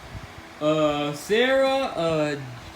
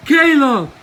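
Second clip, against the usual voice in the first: loud telling-off of a name; teacher scolding Caleb by name; scolding shout; 5 dB louder than usual. Acted. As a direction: snap the name out in reproach. Scolding the boy.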